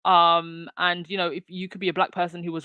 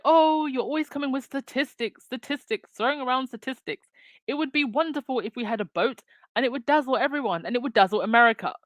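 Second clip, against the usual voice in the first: higher pitched, sneering mock of a pompous pundit; mocking impression; 6 semitones higher than usual. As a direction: ham up his scoffing at statistics, pitched up. Mocking the other guy's dismissive quote.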